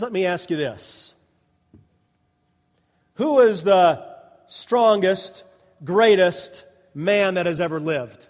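usual speaking voice

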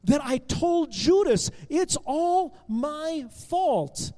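high, slow, emphatic anguish; mad at himself. Acted. Benjamin upset that he told Judas, mad at himself. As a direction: drag out each word in self-blame. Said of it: "it just made it so mad".

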